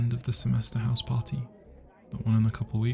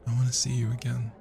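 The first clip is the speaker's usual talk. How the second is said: hushed regretful whisper; sad whisper. Acted. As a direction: confess it in a whisper. Confessing secret identity.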